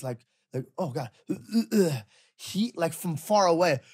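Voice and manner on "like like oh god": mock groan. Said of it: "he's not throwing up like this".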